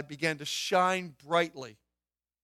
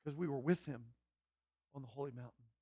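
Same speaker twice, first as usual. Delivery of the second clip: much softer, lower awe; hushed; 5 semitones lower, 13 dB quieter than usual. Acted. Peter recalls the holy mountain in hushed awe. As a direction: drop to a reverent near-hush. Drops to hush.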